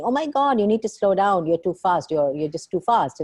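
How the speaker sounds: high, loud exasperated scolding; exasperated others. Retold or imitated. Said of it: "many people turn around and tell me".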